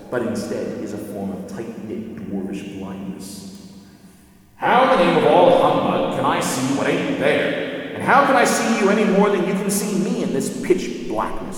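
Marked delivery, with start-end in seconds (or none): 4.6-11.6 louder, higher indignant dwarf; scoffing dwarf. A narrator's reading. Diggle scoffing at Lucy, loud indignant dwarf. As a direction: scoff at the very idea.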